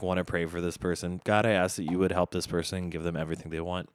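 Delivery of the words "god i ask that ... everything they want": a fast, rushed little prayer; quick prayer. Real, not acted. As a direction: rattle off a sincere prayer quickly. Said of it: "Me praying on air".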